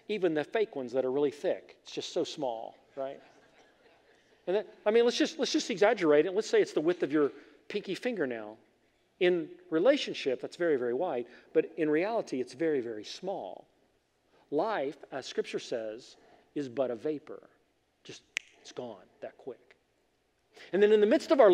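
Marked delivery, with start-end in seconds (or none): 1.8-3.2 "it's just so small" dropped to a softer voice, falling on "so"; softer repeat. Shown as a demonstration. Preacher quietly repeats to the congregation how small life is. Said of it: "repeated phrase". 18.0-19.8 breathy hushed whisper, almost gone. Acted. Preacher whispers to the congregation how fast life vanishes.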